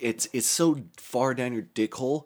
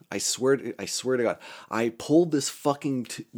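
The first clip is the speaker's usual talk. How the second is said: ordinary talk, nothing marked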